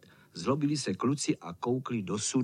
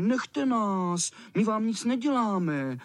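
frightened shouting; 6 semitones higher, slower than usual. Acted. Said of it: "Ti křičeli".

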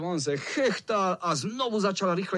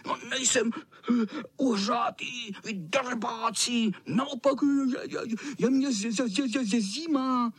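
higher, stammering with cold; shivering cat; 8 semitones higher than usual. Acted. Soaked cat insisting he's fine while shivering. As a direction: stammer as if freezing. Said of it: "Drkotal zuby".

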